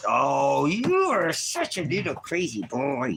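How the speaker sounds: high, loud, drawn-out gushing at a dog; gushing pet talk. Real, not acted. Gushing over his dog.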